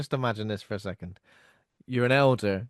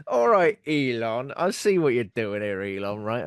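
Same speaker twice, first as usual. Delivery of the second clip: mock lecture to Elon; 4 dB louder than usual. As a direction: scold Elon with a smirk. Mocking Elon Musk.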